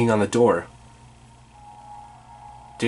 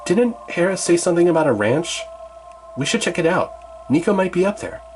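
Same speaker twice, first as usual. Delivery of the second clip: put-on higher teen boy voice; keen young hero, pitched up; Percy voice; 7 semitones higher than usual. Percy urges Annabeth to check the ranch, higher.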